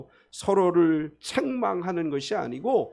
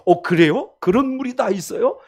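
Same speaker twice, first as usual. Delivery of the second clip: higher, eager woman asking for water; lightly voiced woman at the well, a touch surprised; curious Samaritan woman; 5 semitones higher, 3 dB louder than usual. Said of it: "그래서 이제 이렇게 얘기해요".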